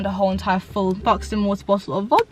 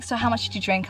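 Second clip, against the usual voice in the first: mock stern question; 7 dB quieter than usual. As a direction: quietly grill her. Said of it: "he was just like".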